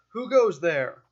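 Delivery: loud guard's call from above; shouted challenge. Acted. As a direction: shout it down to approaching strangers. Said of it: "he shouts down at you".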